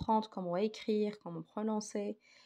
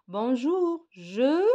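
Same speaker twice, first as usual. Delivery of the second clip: acted greeting; 6 semitones higher, 7 dB louder, much slower than usual. Teacher acting dialogue greeting.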